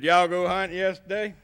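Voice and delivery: lightly voiced old farmer in a rural Alabama brogue. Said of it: "it was about like this".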